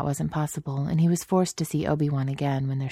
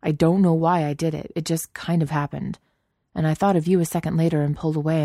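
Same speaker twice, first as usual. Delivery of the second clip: guilty rush. Acted. Guilty confession, rushing.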